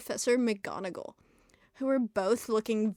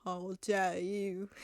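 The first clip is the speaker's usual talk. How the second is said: demanding; 3 semitones lower, 5 dB quieter, slower than usual. A narrator's reading. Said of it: "demanded Professor Snape".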